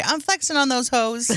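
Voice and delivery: lightly voiced dad boast; casual take-off of dad; imitating dad's catchphrase. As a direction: quote dad's line with a touch of swagger. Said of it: "he would always say".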